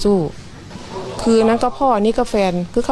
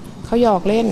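lightly voiced husband teasing. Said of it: "ผัวเขาจะบอกว่า".

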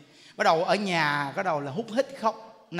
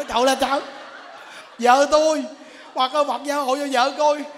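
loud, higher alarmed cry; mock frightened husband; 4 semitones higher, 6 dB louder than usual. Husband scared by his laughing wife, mock alarm. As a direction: exclaim in hammed-up panic. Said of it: "Nó quay lại nó sợ".

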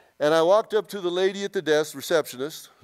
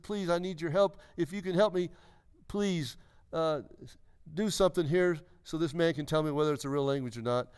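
simple prayer; 4 dB quieter than usual. Retold or imitated. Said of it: "I said a simple prayer".

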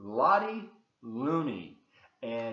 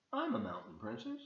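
very high, soft mock princess; retold princess; 13 semitones higher, 8 dB quieter, faster than usual. Reader retelling the princess's claim, very high. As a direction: lift "I'm" way up, playful. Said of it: "showing up saying".

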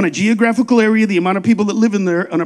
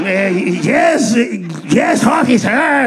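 mock Mexican accent; slower than usual. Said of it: "I have to sound like a Mexican".

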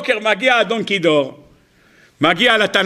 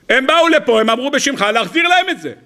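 scolding wife; 5 semitones higher than usual. Acted.

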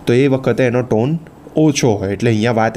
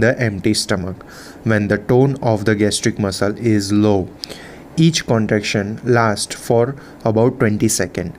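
slow, measured reading of notes; slow textbook read-out; much slower than usual. Real, not acted. Teacher reading physiology notes to students, slow and measured. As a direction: read it out slowly, phrase by phrase. Reads lesson text aloud slowly.

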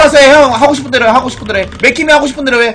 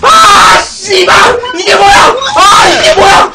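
cursing shout; 5 semitones higher, much slower than usual. Real, not acted. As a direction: yell curses in frustration. Player raging after losing units.

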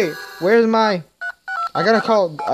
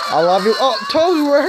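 put-on high squeaky girly voice, much higher; Toadette voice; 9 semitones higher, 4 dB louder than usual. Gamer voicing Toadette to Toad, high and sweet. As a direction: play the lovestruck little mushroom girl.

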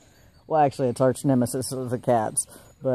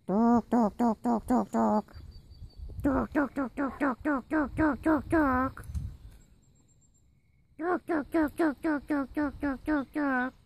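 rapid, high, soft repeated calls; soft, very high staccato animal call; calling a pet; 11 semitones higher, 6 dB quieter than usual. Real, not acted. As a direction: chant it in a tiny high voice. Chanting name to call pet.

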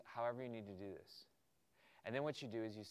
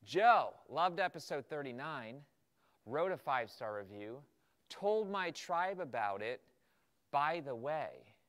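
enthusiastic email; 3 semitones higher, 6 dB louder than usual. Retold or imitated. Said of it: "So now you tell Joe in the email".

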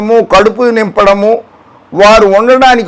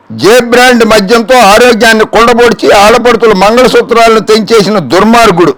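higher, emphatic accusing read-out; declaiming read-out; 4 semitones higher than usual. Acted. Commentator reads rival's liquor accusation before rebutting, declaiming.

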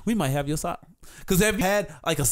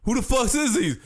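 retold anger; 7 semitones higher than usual. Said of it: "I'm like".

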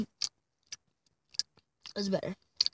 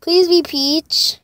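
scared pleading; 5 semitones higher, much slower than usual. Real, not acted. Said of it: "I'm scared now".

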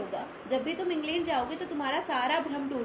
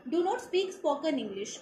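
very slow, word by word reading; slow quoted line; much slower than usual. Shown as a demonstration. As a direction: read the quote out slowly and deliberately. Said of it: "मैं आपको पढ़ के सुनाती हूँ".

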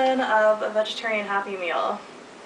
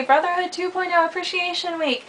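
excited announcement; 8 semitones higher than usual. Real, not acted. First announcement, high and excited.

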